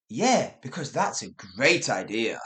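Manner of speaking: flat dry sarcasm; British sarcasm. Shown as a demonstration. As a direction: say it deadpan, almost sincere. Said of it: "a good example would be".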